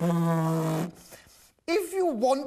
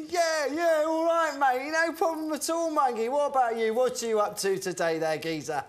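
mock cockney; 3 semitones higher than usual. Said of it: "If you try and act like other people".

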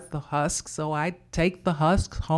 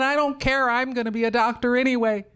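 put-on stubborn girl insisting; defiant child; 5 semitones higher, faster than usual. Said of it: "I said".

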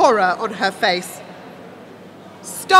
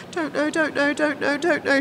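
rapid anxious murmur under the breath; frantic repetition; 3 semitones higher, 3 dB quieter than usual. A narrator's reading. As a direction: repeat it nervously, like a compulsion. Frantic seer muttering repeatedly.

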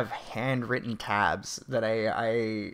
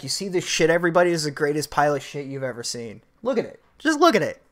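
mock proud dad; 3 dB louder, faster than usual. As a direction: show it off to everybody like a proud dad. Dad hyping son's poop proudly.

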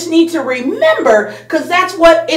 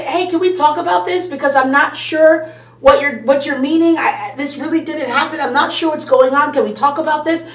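soft answer; 4 dB quieter than usual. Retold or imitated. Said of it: "turn away that wrath with a soft answer".

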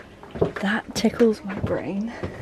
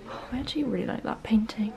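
hushed whisper among the shelves; shop whisper; 6 dB quieter, much faster than usual. Real, not acted. Browsing a quiet homeware shop, hushed whisper.

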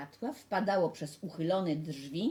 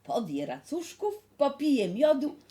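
lightly voiced mother, louder and higher at the start; Red Riding Hood's mother; 6 semitones higher, 5 dB louder than usual. Mother sending the girl to grandma, lightly acted motherly voice. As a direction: send the child off like a mother.

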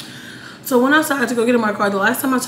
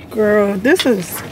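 really pissed off; 3 dB louder than usual. Real, not acted. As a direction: sigh hard, then vent in disbelief. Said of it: "I'm so fucking pissed right now".

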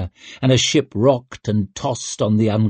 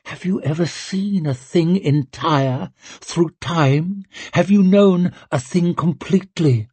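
questioning witch; 7 semitones higher than usual. Acted. Witch questioning the girl in vision.

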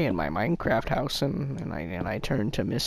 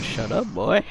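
parrot voice; slower than usual. Retold or imitated. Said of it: "And he said".

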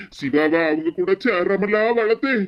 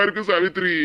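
sobbing through the name; crying; 3 semitones lower than usual. Acted. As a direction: voice breaks into a sob. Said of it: "இந்த மாதிரி வார்த்தையெல்லாம் சொல்லாதீங்க". (அழுகையுடன் உடைந்த குரல்)

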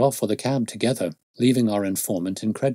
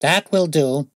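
louder, higher cut-off; sharp cry; 7 semitones higher, 7 dB louder, slower than usual. Acted. Detective stops constable's description, raised impatient cry. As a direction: cut him short impatiently. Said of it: "cried Holmes".

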